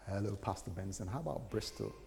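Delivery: gentle whisper. Retold or imitated.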